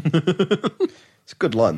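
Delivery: slow wheezy snicker through words; Muttley laugh. Real, not acted. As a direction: snigger out the words slowly. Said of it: "That's got a Muttley laugh".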